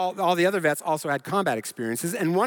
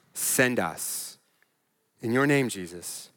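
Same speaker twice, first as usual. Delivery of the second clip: closing prayer. Real, not acted. Preacher asks Jesus for a command, earnest prayer. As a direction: lead the congregation in prayer, easing down at the end. Closes sermon leading prayer.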